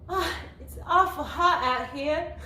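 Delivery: slow, drawn-out Southern Belle drawl; Southern Belle accent. Shown as a demonstration. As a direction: put on a Southern Belle accent, half-laughing. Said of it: "so I wrote Southern Belle".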